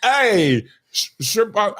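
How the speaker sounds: badly faked Australian; Australian accent. Shown as a demonstration. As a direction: grope for an Aussie accent.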